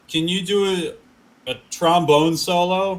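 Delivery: a hint of a breezy favour request; casual ask. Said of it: "be like".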